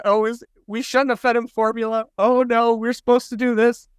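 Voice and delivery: mock fretting. Parents fretting to doctor.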